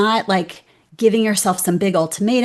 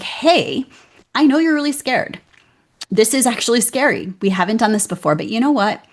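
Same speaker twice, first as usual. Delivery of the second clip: encouraging pep talk; 3 semitones higher than usual. Retold or imitated. Guest retells how she coaxes her scared self, gently encouraging. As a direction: coax a scared child into trying. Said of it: "being extraordinarily encouraging to myself".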